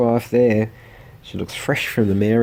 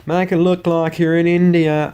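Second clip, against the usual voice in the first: bossy photographer; 8 semitones higher, 4 dB louder than usual. Pretend. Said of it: "plonked in ... photographic studio".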